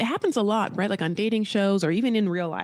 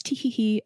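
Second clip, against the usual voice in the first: higher spoken titter; mock giggle; 4 semitones higher than usual. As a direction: fake a little tee-hee. Spoken giggle after self-mocking aside.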